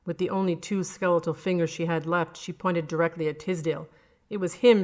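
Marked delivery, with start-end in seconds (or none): 4.3-4.8 accusing. A narrator's reading. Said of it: "she said".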